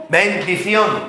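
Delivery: "Bendición" drawn out very slowly; slow emphasis. Shown as a demonstration. Preacher summing up the word for the congregation, very slowly. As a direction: stretch "Bendición" out syllable by syllable. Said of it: "de decir".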